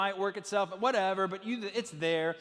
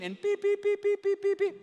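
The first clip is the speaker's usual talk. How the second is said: much higher, beep beep like an ice maker; machine beeps; 13 semitones higher, 3 dB louder than usual. Retold or imitated. Pastor mimics the jammed ice maker, high beeps. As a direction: mimic the jammed dispenser beeping.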